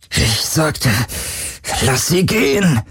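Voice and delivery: pained insistence; shouting while wounded. A narrator's reading. Wounded hero demands.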